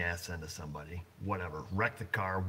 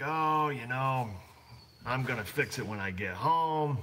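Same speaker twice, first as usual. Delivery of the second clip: mock sob story; 3 semitones higher than usual. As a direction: drag out "Oh" like a fake excuse. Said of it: "he gives you this big sob B S story".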